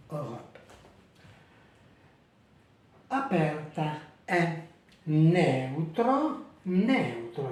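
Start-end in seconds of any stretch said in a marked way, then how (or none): 3.1-7.5 neutro with open e in eu; careful Italian model; Italian diphthong. Shown as a demonstration. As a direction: say neutro slowly, eu in one syllable. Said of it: "les deux voyelles ici, la même syllabe".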